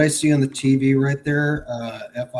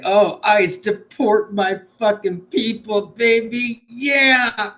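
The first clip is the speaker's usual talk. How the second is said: higher, slower breathy mock moan; 8 semitones higher, 4 dB louder, slower than usual. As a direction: moan it like a lover. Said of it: "and say".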